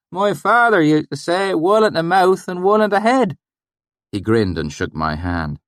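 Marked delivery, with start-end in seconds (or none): 0.1-3.4 put-on valley accent. A narrator's reading. Swineherd greeting the narrator, pleased, thick valley accent.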